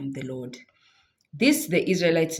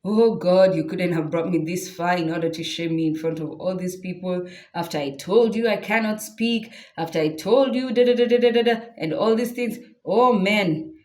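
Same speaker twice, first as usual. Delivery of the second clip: panicking Moses; 3 dB louder than usual. Acted. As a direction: stammer out the excuses in a panic. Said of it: "So now Moses is also panicking".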